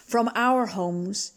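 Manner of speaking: steady, earnest prayer voice; leading prayer. Acted. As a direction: pray aloud for the congregation, unhurried. Leads opening prayer.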